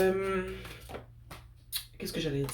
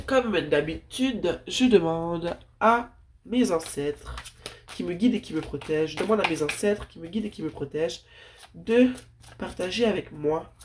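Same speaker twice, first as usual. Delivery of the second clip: prayer voice. Acted. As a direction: call on the ancestors reverently. Calls on ancestors and universe.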